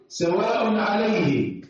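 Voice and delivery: slow chanted tajweed reading of سواء عليهم with the nun of the tanwin said clearly; drawn-out Quran recitation, clear nun; Quranic recitation. Shown as a demonstration. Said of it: "لأن بعدها حرف من أحرف الحلق".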